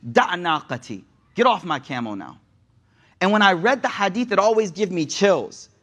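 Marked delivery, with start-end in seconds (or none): 0.1-2.4 firm, lowered command, not shouted; understated sternness, no room for argument; stern command. Retold or imitated. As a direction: end it low and final. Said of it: "he says very sternly".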